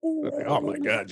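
gobbling turkey voice. Acted. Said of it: "you hear Tom's turkey?".

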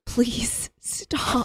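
breathy whispered begging; whispered plea. Retold or imitated. Whispering to the brother at breakfast, begging him to stop. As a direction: beg in a hush.

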